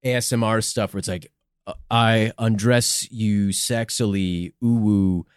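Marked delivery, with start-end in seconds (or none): 1.9-5.3 slow breathy seductive murmur; sexy ASMR voice. Acted. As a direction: purr it out slowly. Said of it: "sexy, like, ASMR stuff".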